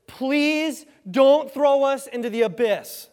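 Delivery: loud, high, drawn-out begging; freaked-out pleading. Acted. Demons beg Jesus to spare them the abyss, freaked-out pleading. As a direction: plead desperately, stretching the words. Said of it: "These demons are freaked out".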